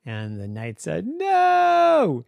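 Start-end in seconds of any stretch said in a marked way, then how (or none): 1.1-2.2 high, loud panicked no; alarmed cry. Acted. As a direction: yelp it as the fire comes. Knight cries out at dragon.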